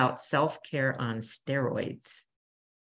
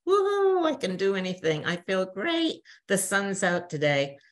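mock-elated whoop, much higher; giddy high; 5 semitones higher than usual. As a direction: act out a good day's euphoria. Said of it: "we're like".

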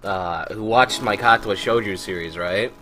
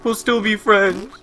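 sing-song mock, rising much higher on the repeat; mocking sweet voice; 7 semitones higher than usual. Mocking the fan who says they'll stay friends, sing-song. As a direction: parody his fake niceness. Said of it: "And you're like".

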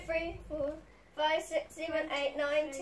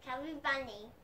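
cheeks stuffed full; 6 semitones lower, 18 dB quieter, faster than usual. Real, not acted. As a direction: mouth full of marshmallows. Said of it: "put 'em in your mouth more".

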